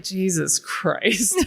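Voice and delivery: drawn-out, imitated Irish exclamation; exasperated Irish person. Irish person reacting to Americans, imitated slow exclamation. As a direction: stretch it out slowly as a mock Irish reaction. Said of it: "an Irish person who's like".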